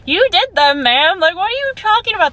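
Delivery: can't believe she's saying it; incredulous outburst. Retold or imitated.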